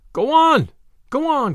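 high, urgent crowd shout; crying out. A narrator's reading. Fleeing crowd urging each other on, crying out. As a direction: call out loud and high over a moving crowd. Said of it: "cried the voices".

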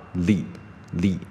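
"力" with the tongue flicking outward; tongue-flicked L. Shown as a demonstration. Teacher showing students the wrong Z, tongue-flicked "力". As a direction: say "力" alone, a clear L onset each time. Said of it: "舌头是有一点往外弹的感觉".

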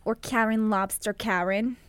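put-on a touch of a Boston accent. Joking around with co-host, light Boston accent. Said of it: "Is that a Boston accent?".

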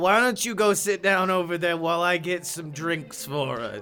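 hearty cabbie. Acted. Character speaking to the kid.

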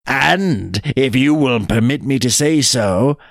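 measured, mock-polite satisfaction; courteous, drawn out at the close; lightly voiced sly jackal. Jackal has shut the tiger in, slyly polite.

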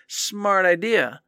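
slow, drawn-out sarcasm; sarcastic praise. Real, not acted. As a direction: stretch out the fake compliment. Sarcastic praise of past self.

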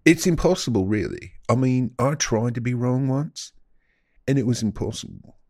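put-on British wanker accent; mock British accent. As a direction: talk casually in a hammed-up British accent.

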